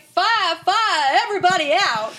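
high, loud mock alarm; hammed-up sitcom scream; imitated scream. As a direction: act out a panicked cry to clear the room. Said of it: "Blanche stands up and screams".

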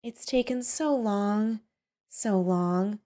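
soft, slow, drawn-out musing; dreamy. A narrator's reading. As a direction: drift off softly, stretching the words. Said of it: "she said dreamily".

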